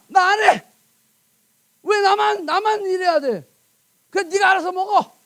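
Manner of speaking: acted-out indignant complaint; lightly hammed-up huffy outburst; mock anger. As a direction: play a fed-up worker griping at a freeloader. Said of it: "손이 열받아서".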